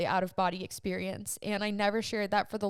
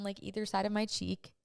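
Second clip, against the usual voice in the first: usual speaking voice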